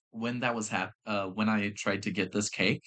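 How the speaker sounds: hiccuping mid-sentence; talking through hiccups. Real, not acted. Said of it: "Sorry, I have the hiccups".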